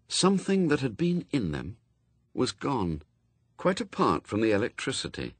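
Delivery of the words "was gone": ordinary delivery, nothing marked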